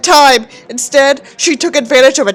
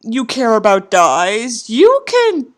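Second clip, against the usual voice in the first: sarcastic mock plea; much slower than usual. Sarcastic mock defending the father.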